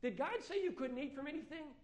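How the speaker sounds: high, sly tempting snake; serpent voice. Acted. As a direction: coax like a serpent. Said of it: "And it says, it tries to fool us".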